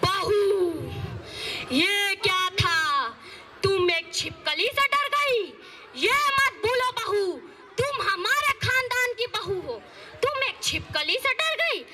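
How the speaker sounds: a hint of a stern village saas, nagging; lightly voiced scolding mother-in-law. Mother-in-law scolding daughter-in-law over her clothes, nagging.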